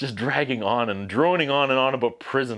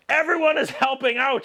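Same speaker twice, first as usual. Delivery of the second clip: a higher, light mock snap at the old lady; scolding her in a pitched-up voice; 10 semitones higher than usual. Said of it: "she snaps at her".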